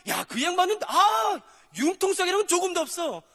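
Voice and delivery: hammed-up exasperated complainer; mocking complaint. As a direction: whine and shout as an annoyed reader. Mocking a grumbling Bible reader.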